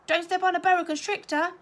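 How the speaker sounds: high, loud schoolgirl shriek. A narrator's reading. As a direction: cry it out to a departing friend. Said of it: "shrieked Melanie".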